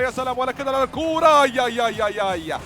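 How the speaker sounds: excited. Real, not acted. Near goal, caster cries out.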